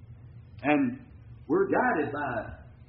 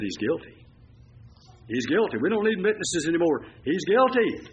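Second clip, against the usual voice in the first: building accusation; 4 semitones higher, 4 dB louder than usual. Retold or imitated. Chief priests condemning Jesus.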